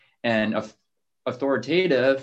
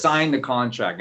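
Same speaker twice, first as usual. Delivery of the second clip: firm "Sign the contract", falling at the end; "Sign the contract" as a scripted command; taught downswing. Shown as a demonstration. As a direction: chop down on "contract". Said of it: "that's how I've been taught".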